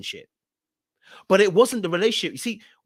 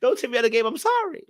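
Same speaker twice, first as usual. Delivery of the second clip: higher, pleading plea to the Lord; retold panicked begging, pitched up; 6 semitones higher than usual. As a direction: beg God for your life, voice climbing. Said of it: "I was begging and crying".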